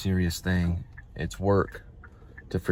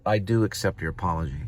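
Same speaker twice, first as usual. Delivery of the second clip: softer, earnest, stress on do; mean every word, gently; sincere; 4 dB quieter than usual. Retold or imitated. First grader accepting the apology again as the teacher asked, sincere and soft. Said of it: "say it like you mean it".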